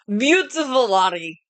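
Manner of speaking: put-on slow, drawn-out French-accented flattery; attempted French accent. Game master as suitor greeting princess, attempted French accent. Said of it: "I'm trying to do a French accent".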